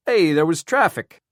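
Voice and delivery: defensive. A narrator's reading. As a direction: shrug off the blame. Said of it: "Worley said defensively".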